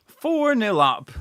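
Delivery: slow, drawn-out repeat of "Four nil up"; slow savouring. Real, not acted. Fan savouring the score for his viewers. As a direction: let "Four" sink in slowly.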